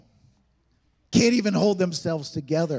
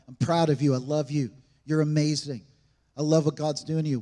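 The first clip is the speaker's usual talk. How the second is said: put-on lower, gentle words to a child; tender blessing; 5 semitones lower than usual. A parent kneeling to bless a child, tender and low.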